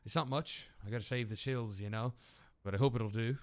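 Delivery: put-on Australian character voice; Australian accent. Character hands over modest payment, Australian accent. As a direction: keep up the amateur Australian twang. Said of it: "I'm stuck on Australian".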